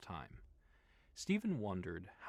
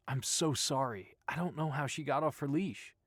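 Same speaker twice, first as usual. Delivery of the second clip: lying apologetically; 6 semitones higher, 6 dB louder than usual. Acted. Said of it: "he lied".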